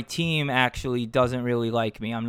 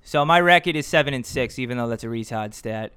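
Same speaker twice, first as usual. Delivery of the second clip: put-on Boston accent. Reading his pitcher stats in a Boston accent. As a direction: lay on a Boston accent for fun. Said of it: "I'll say this in a Boston accent".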